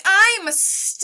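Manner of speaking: shouted high and loud, goofing in the hallway; playful high hallway scream; mock dinosaur scream. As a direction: yell it like a silly kid playing dinosaur.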